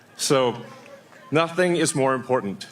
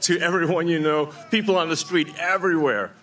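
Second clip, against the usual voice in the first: impassioned plea; 3 semitones higher than usual. Real, not acted. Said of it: "one final impassioned plea".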